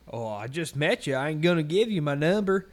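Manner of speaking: hammed-up retold refusal; mocked customer. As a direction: imitate a trashy customer protesting, loudly. Acts out customer's coy reply.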